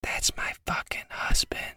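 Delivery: breathy whisper dissolving in laugh. Acted. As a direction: whisper it conspiratorially. Elf wife whispers.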